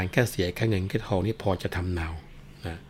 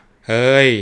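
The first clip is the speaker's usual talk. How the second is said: policeman's shout; 5 semitones higher, 11 dB louder, much slower than usual. Acted. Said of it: "ก็ร้องบอกว่า".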